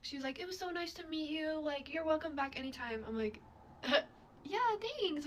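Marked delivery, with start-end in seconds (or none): 0.4-3.0 imitated polite goodbye. Mom's cheerful goodbye, repeated. 4.4-5.2 high, forced thanks; high-pitched, insincere pleasantry; fake politeness. Fake politeness, deep down never again.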